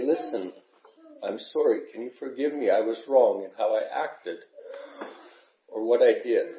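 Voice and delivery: choked up, voice low and halting; fighting back tears while speaking; holding back sobs. Real, not acted. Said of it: "I get emotional about some of this".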